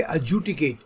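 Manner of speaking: एडजुडिकेट said with the first d left silent, like ejudicate; teacher models एडजुडिकेट with no d sound after the a; silent d pronunciation. Shown as a demonstration. Teacher shows students how to say the word, silent d. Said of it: "डी पहला वाला बिल्कुल silent है".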